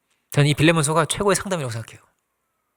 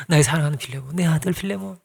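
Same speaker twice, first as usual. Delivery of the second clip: loving address; 3 dB quieter than usual. Acted. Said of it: "그래서".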